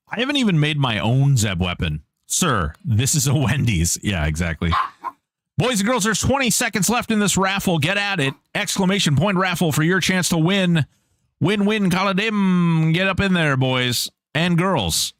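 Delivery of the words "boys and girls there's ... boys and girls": higher, bright announcer call to the chat; hyped raffle host. Real, not acted. Streamer hyping the raffle countdown to viewers, high excited call. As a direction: pump up the crowd for the raffle.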